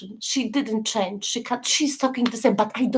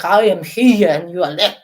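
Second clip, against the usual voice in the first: looking down; 3 semitones lower, 9 dB louder than usual. Pretend. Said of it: "You have to look at her not down like".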